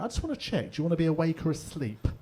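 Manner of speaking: high, soft polite receptionist voice; gently asking in a lilting high voice; lovely phone lady. Retold or imitated. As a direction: mimic a sweet nurse on the phone. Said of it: "Like that".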